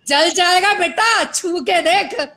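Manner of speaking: slow, drawn-out filmy dare; slow teasing filmy challenge; dramatic filmy threat. Retold or imitated. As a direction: deliver it like a TikTok movie line, slowly. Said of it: "TikTok का dialogue था".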